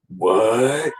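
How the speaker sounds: long drawn-out, rising what; stunned disbelief. Retold or imitated. Buddy learns who was on the phone, stunned. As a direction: stretch it out in mock disbelief.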